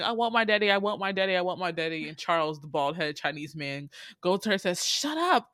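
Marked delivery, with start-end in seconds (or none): 0.0-2.1 put-on mildly raised, rapid whiny-kid chant; lightly mock a kidnapped girl's yelling; imitated child's yelling. Kidnapped Vanessa demanding her dad, mock yelling. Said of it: "she's keep yelling". 4.8-5.5 high-pitched mock-stern shush; mock scolding. Bald henchman silencing the kidnapped girl, mock scolding.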